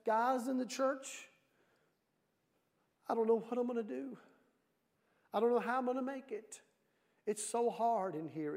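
a touch of whiny despair; mock sad letter. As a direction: act mildly sorry for yourself, sinking at the end. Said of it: "writing a real sad letter".

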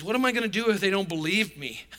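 mildly fretful, pleading question; uptight Moses. Acted. Moses doubting he is qualified for God's task, mock uptight. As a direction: ask it with a touch of acted worry. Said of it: "Moses is pretty uptight about this".

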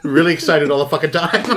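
laughing. Real, not acted. Joking about the actress.

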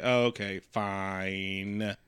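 low, soft, sinking reluctant agreement; resigned giving-in. Acted. Ice King backing down from the fight, resigned. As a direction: let it drop away, defeated.

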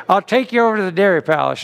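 quick, lightly imitated Southern accent; a hint of a Southern uncle, said briskly; Uncle Howard. Uncle offering to drive guests to Dairy Palace, mock Southern accent. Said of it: "by the way, Southern accent".

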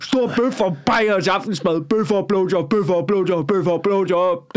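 lightly voiced, excited bloke talk; rowdy lads imitation. Imitating men egging Claus on, mildly rowdy. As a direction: build up, then chant it along. Acts out lads partying together.

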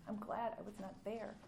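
softly echoing I'm glad I was not there; quiet repeat. Shown as a demonstration. Preacher repeating the verse softly to the congregation, quiet. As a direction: let the line settle, hushed. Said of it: "I came to give life".

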